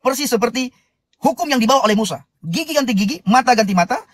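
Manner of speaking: earnest sermon voice, building and lifted; preaching. Acted. Host preaching to live viewers about Dale, earnest sermon. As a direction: preach it to the congregation with conviction.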